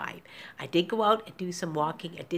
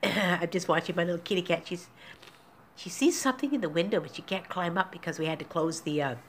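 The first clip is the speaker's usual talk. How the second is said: ordinary talk, nothing marked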